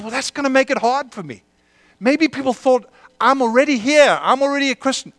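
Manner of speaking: high mock protest; mock objector. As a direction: play the reluctant churchgoer. Voicing listeners' objections.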